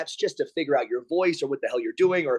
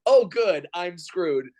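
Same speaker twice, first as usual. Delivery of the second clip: sarcastic dread; 3 semitones higher, much slower than usual. Retold or imitated. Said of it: "And I go".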